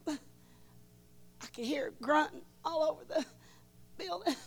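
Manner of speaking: soft, half-whispered retelling; hushed. Retold or imitated. Preacher hushing the crowd while recalling the grunting woman. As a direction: drop to a hush as if in the room.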